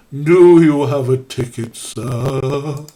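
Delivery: a lightly voiced eerie ghost; ghost wail. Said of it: "I'm gonna do a spooky voice".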